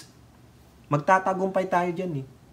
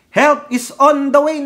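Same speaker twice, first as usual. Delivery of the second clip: much higher, louder, slow "Help is on the way"; rousing leader's cry; 12 semitones higher, 7 dB louder than usual. Retold or imitated. Commentator imitating a leader rallying hopeless people, high rousing cry. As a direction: lift them up with it like a rallying cry. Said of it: "Biglang sabi ng leader".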